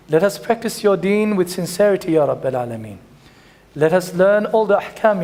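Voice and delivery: fast Arabic supplication, then pleading refrains; closing prayer. Acted. Preacher closes the lesson with a dua for the congregation, chanted prayer. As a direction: pray over the congregation, imploring.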